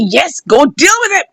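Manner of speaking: acted gleeful urging; delighted and happy. Mother egging on her son, delighted and happy. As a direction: cheer him on as the happy mother. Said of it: "mother was delighted and happy".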